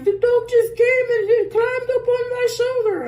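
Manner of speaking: high, put-on Latina accent imitating the sitter. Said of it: "I'm sorry if my accent is bad".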